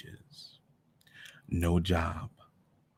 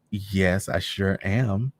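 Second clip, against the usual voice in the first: fake cheer; much slower than usual. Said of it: "chuckling, being as fake as anything".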